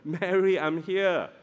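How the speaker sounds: gentle, unhurried reassurance. Shown as a demonstration. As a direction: say it tenderly, like comforting someone in tears. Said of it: "I think that was the tone".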